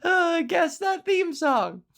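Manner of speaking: lingering game-show tease; high playful challenge; playful quiz. Real, not acted. After singing, still up.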